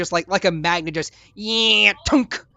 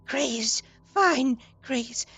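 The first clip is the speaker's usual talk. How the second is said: squeaky, high excited creature squealing the name; high-pitched gleeful creature voice; excited little creature; 10 semitones higher, 4 dB louder, much slower than usual. Acted. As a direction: gush over her like an overjoyed little critter. Gustav hugging Gray excitedly.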